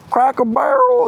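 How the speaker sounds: "Cracker Barrel" drawled high, local-style; local accent. Retold or imitated. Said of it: "is that how they speaking out here".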